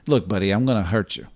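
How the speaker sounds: a quiet, calm New Jersey menace; soft New Jersey threat. Retold or imitated. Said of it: "if you just talk softly, but in that kind of accent".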